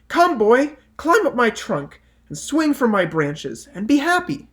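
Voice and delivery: put-on high, loud eager tree inviting the boy; the loving tree. A narrator's reading. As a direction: call the boy up joyfully, voice lifted high. Tree voiced again, same invitation.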